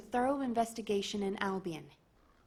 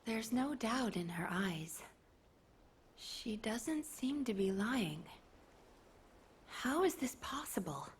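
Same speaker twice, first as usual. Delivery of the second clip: hushed aside; 4 dB quieter, slower than usual. Acted. Officer musing aloud in disbelief.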